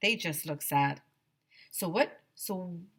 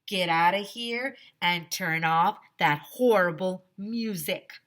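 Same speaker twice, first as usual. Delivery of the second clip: stern shout; 4 dB louder than usual. Acted. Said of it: "he shouted through the bullhorn".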